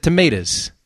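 "tomatoes" ending in a short "uhs"; Jersey pronunciation. Shown as a demonstration. Host owning up to Jersey speech, "tomatoes" as "tuh-MAY-duhs". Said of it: "that's pretty much how it's pronounced".

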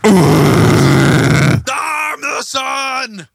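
loud, high shout as the sun. Pretend. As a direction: bellow it like the roaring sun. Pretending to be the sun.

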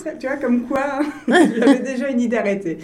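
amused, laughing while speaking. Real, not acted. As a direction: laugh through the line. Guest laughs at childhood dream. (en riant)

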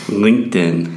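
LinkedIn in American accent. Shown as a demonstration. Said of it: "Eu vou falar com o sotaque americano".

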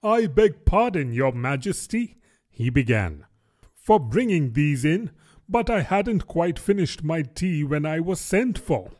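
lightly voiced nervous Hatter; Hatter apologising. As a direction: beg pardon of the king.

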